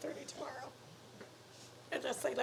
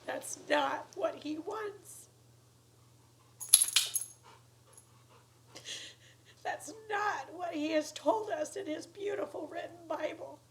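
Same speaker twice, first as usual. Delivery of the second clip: pushing through tears to object; crying protest. Real, not acted. Tearful protest about God's word.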